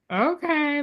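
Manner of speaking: high, drawn-out, doubtful okay; sceptical okay. Retold or imitated. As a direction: humour them with a dubious okay. Husband doubtfully humours her.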